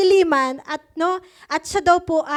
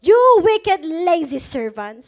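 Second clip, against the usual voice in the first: stern rebuke; 6 dB louder, slower than usual. Acted. Master condemns the lazy servant.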